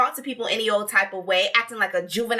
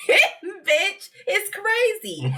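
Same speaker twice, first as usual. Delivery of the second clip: slow emphatic verdict; 9 semitones higher, slower than usual. Real, not acted. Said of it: "repeated, slowed, laughing".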